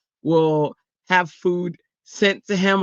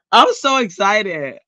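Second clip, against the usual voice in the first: slow and a bit louder; drawn-out excitement; 3 semitones higher, 4 dB louder, slower than usual. Real, not acted. Telling chat about her stickers, slowly savoring it. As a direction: draw it out with relish.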